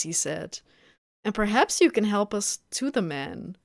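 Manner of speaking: measured audiobook-style reading; story narration. A narrator's reading. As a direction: read the story aloud evenly. Reads the novel aloud.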